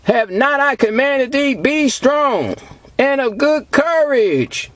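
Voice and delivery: slow, measured scripture declamation; preacher reciting scripture slowly; scripture reading. Acted. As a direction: read the verse out deliberately, word by word. Reads scripture aloud to congregation.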